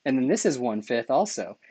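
ordinary talk

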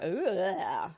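drawn-out "ugh" of revulsion; disgusted groan. Real, not acted. Dreading tomorrow's brain swab, disgusted groan. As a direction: groan at an unpleasant thought.

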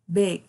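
"Big" said short and crisp, not "biggie"; clear "big". Shown as a demonstration. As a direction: say "Big" cleanly with one short i. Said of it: "We don't say biggie".

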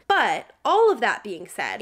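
ordinary talk, nothing marked

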